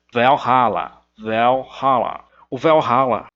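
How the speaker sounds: Valhalla, first vowel between E and A. Shown as a demonstration. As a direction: open the A of Valhalla toward E. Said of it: "uma mistura de E e de A".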